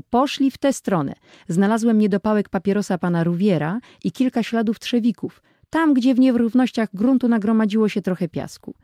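excited call. Acted. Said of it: "zawołał w końcu".

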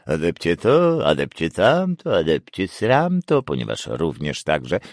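gurgling through water; mock the teacher while splashing water; while gargling. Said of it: "wybulgotał Roses".

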